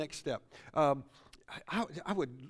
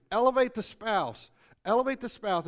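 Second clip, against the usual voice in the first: louder preaching; 4 semitones higher, 8 dB louder than usual. Real, not acted. Preacher driving home repeated point.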